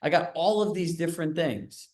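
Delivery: eager agent. Retold or imitated. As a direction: play the overeager listing agent selling hard. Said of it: "agents show up in there and are like".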